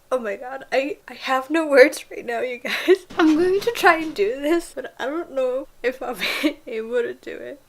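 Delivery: giddy, breathless with laughter; bursting with excitement, laughing; excited laughing. Real, not acted. Overwhelmed after finishing chapter.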